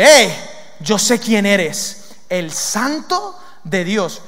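very slow, drawn-out demon declaration; slow, weighty demon voice; demon greeting Jesus. Acted. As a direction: stretch every word as the demon naming Jesus. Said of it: "Un demonio que, que llega allí".

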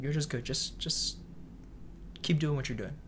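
softly imitated mentor, sincere; quiet encouragement with small pauses; fatherly. Mentor encouraging a young cook, fatherly and genuine. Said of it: "sort of fatherly mentor, coach".

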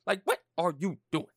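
loud scolding. Retold or imitated. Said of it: "be like".

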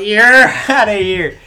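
loud high umpire call broken by a laugh; overdramatic, laughing through it. Retold or imitated. Umpire finishing his shuffle, laughing overdramatic call. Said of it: "he makes sure he goes".

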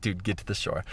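quiet tense urging; low, anxious plea to go back; worried urging. Retold or imitated.

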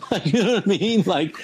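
laughing while asking if they follow; a laugh runs through the question. Real, not acted. Talking to the host, laughing mid-question.

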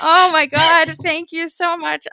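high, tearful laugh into thanks; laughing, overwhelmed. Real, not acted. Host thanking friends for surprise messages, laughing and overwhelmed. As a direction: gush thanks through laughter.

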